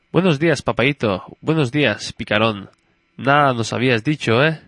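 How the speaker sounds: a hint of a playful daughter; little girl. Girl greets her papaíto, lightly playful child voice. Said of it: "La nena".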